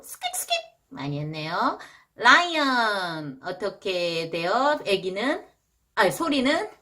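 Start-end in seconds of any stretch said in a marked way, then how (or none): none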